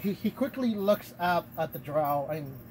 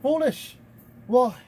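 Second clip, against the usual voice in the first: higher, louder haughty cat; 6 semitones higher, 7 dB louder, slower than usual. Acted. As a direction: scoff as a high-voiced cat. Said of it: "the cat voices changes".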